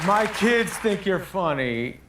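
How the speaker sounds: slow, lightly voiced Harrison Ford; imitating Harrison Ford. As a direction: drawl it out slowly, a hint of the star. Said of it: "he goes".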